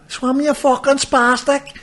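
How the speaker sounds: high, drawn-out mock yell; mock shout. Onlookers calling to a man in the water, mock shout. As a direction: stretch it out high like a held-back shout. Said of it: "what they shouted at them".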